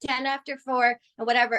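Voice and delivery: a mild mock of a sorry client rescheduling; apologetic client. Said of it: "And they go".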